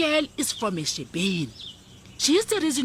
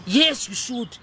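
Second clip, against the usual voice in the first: curt snap; 3 semitones higher, 6 dB louder, slower than usual. Acted. Mother dismisses the girlfriend.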